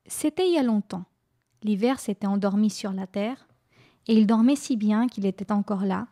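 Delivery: gentle storybook reading voice; story narration. A narrator's reading. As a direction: read it like a bedtime tale. Reads a tale aloud.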